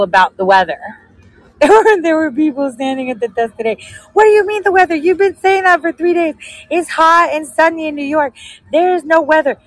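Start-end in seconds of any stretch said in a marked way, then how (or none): 4.1-9.6 angry passengers. Retold or imitated. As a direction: voice the fed-up crowd, pitched way up.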